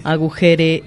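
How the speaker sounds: "agujere" slow, stressed on JE with unstressed last E; order form. Shown as a demonstration. Host testing the command form, hesitant slow stress. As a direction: try agu-JE-re, slowly. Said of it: "sería como orden".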